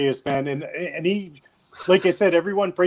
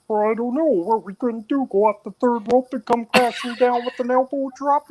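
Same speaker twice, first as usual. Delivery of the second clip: higher-pitched wrestler-frog hybrid voice; Macho Man-Kermit mash-up; 6 semitones higher than usual. Acted. Obeying the chat's "dance monkey" request, higher put-on wrestler-frog voice. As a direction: hype an elbow drop as a froggy wrestler. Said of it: "Do Macho Man and Kermit the Frog voice".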